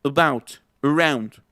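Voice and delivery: "about, around" with a barely sounded first vowel; schwa. Shown as a demonstration. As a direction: say "about" as "uh-BOUT". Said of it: "es pura schwa".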